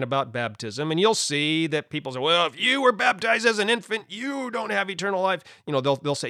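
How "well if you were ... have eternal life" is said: higher-pitched imitation of a condemner; mock judgmental. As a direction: imitate someone passing judgment. Mimics judgmental people online.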